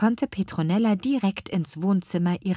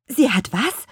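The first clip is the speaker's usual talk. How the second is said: higher and louder surprised "what?"; astonished question; 6 semitones higher, 6 dB louder than usual. A narrator's reading. Young witch hears the garden was a gift, astonished. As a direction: ask it in disbelief. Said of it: "fragte die kleine Apfelhexe verblüfft".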